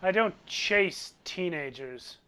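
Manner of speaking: slow, haughty refusal; arrogant rich man. Acted. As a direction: decline it as beneath you, unhurried. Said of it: "arrogant sort of air to his voice".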